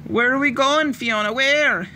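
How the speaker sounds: high, breathless frightened question; panting girl. A narrator's reading. Little sister out of breath asking where they run. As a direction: gasp it out while running. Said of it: "Ailish panted".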